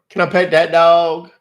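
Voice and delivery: high eager mock plea for a dog; TikTok trend voice. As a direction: ask it like an excited kid. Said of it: "Uh, or".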